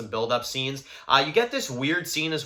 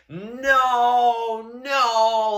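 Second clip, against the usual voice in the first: high-pitched imitated panic, louder; panicked no; 9 semitones higher, 3 dB louder than usual. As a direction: mimic a panicked cry of no. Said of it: "he's reacting like this".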